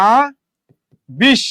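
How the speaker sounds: "আবিষ্কার" slowly as a, bishhh, karrr, with long pauses; drawn-out syllable division. Shown as a demonstration. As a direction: stretch the sh and final r in "আবিষ্কার". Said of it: "আপনি লিখবেন কি".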